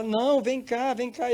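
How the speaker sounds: high acted summons; insistent calling. Voice calling the woman off the beach, high and insistent. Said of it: "E a voz chamando".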